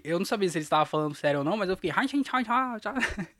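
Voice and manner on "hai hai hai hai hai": high, light gibberish imitating Chinese; imitating Chinese chatter, breaking into laughter; mock Chinese. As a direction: babble pretend Chinese syllables in a higher voice. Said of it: "comecei a falar igual eles".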